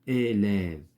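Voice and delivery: اليف drawn out, closed é then open è; contrasted e sounds. Shown as a demonstration. Teacher repeats اليف for pupils, stretching its differing vowels. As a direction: slowly separate the two e sounds in اليف. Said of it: "كنطقوها بطريقه مختلفه".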